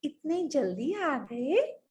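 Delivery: coy, slow, lilting question; smiling queen. Acted. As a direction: greet your husband with a shy smile. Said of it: "मुस्कुराई और बोली". (मुस्कुराते हुए, शरमाकर)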